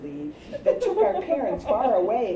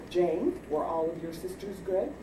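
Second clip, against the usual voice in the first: lower, quiet stern mom; a hint of a stern mother; 4 semitones lower, 7 dB quieter than usual. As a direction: ask the question like a suspicious mother. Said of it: "Ma and Dad would enter".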